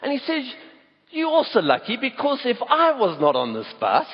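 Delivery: a touch of a preacher in a driver's quote; preaching bus driver. Retold or imitated. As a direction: let a grateful bus driver start to preach. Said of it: "it's like he's almost beginning to preach".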